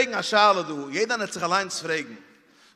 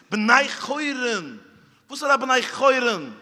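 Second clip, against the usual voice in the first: drawn out; 5 semitones higher, 6 dB louder, slower than usual. Acted. Drawn out emphatic phrase.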